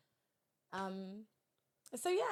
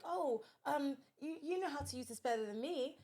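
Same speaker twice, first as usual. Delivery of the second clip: hesitant, higher-pitched mock cluelessness; playing dumb; 4 semitones higher than usual. Elderly man feigns confusion to mother about his phone, playing dumb. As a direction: imitate someone feigning helplessness with a phone. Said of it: "he started to play dumb".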